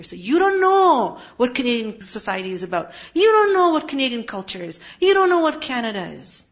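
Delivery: acted know-it-all scolding; mock condescension. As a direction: put the newcomer down, hitting each repeat harder. Voicing scornful born-here Muslims putting down immigrants.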